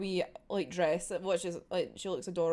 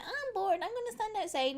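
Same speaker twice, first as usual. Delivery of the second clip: bored Anya; 10 semitones higher than usual. Retold or imitated. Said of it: "she's like".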